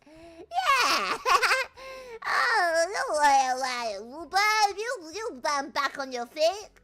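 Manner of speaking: high, loud, laughing through the words; real helpless laughter. Real, not acted. Streamer losing it mid-story, real laughing fit. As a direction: squeal it out while cracking up. Streamer cracking up while talking.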